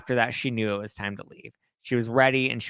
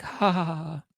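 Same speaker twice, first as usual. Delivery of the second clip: mock laugh; 6 semitones higher than usual. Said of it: "She was like".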